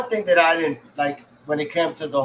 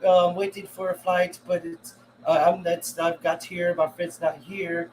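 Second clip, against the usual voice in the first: imitating Russian girl; 4 semitones higher, slower than usual. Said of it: "she's like".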